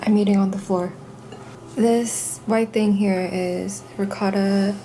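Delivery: talking with a mouthful; words around a bite of food; mouth full. Real, not acted. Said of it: "I'm talking with my mouth full".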